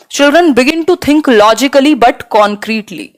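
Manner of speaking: each word of the English option spelled out slowly; slow option read. Acted. Teacher reads answer option one to students, slow and careful. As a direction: read it out like dictation.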